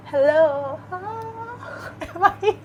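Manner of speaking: thin voice, no bass, through bad earphones; tinny voice. Real, not acted. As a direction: sound thin and tinny, like a cheap mic. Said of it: "You sound tinny, though".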